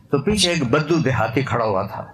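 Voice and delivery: normal talking voice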